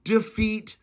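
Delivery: very slow, heavy on every word; slow, emphatic restatement; deliberately slow. Shown as a demonstration. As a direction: drag it out so nobody can miss it. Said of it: "say it real fucking slow".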